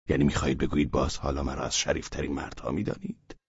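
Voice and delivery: fast, soft incredulous question; disbelieving aside; quick disbelief. Acted.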